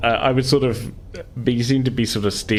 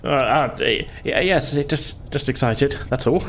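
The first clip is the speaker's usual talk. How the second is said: higher, stammering excuse; a touch of flustered Timmy; mild nervous cover-up; 6 semitones higher than usual. Acted.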